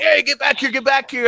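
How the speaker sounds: high-pitched mock calling after thieves; lightly voiced Marine calling them back; imitated Filipino Marine. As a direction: call out high, without real volume. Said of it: "Filipino Marine's like".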